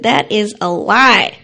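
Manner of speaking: put-on a little girl insisting to her teacher, slowly and firmly; indignant child protest. Third grader objecting to the teacher, slow and indignant. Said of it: "I said".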